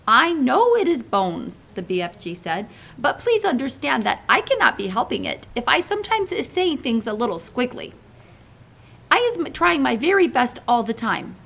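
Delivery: big friendly giant pleading gently; giant's voice. Acted. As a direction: play the kindly muddled giant. BFG speaks to Sophie.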